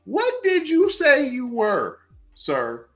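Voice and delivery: incredulous demand. Real, not acted. Demanding to see her paperwork.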